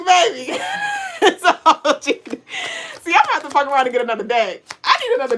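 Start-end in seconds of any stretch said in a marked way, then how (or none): 0.1-2.4 excited shout. Real, not acted. Hyping up the OG deck.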